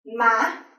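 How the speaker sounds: "ma" short, climbing sharply at the end; short high rising tone. Shown as a demonstration. Teacher showing thanh sắc, short and rising. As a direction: make "ma" brief and lift it high. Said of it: "high rising tone".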